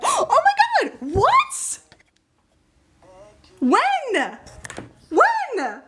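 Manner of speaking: high-pitched, gasping shriek of joy; excited freak-out. Real, not acted. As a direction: screech congratulations in real disbelief. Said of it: "I'm so excited".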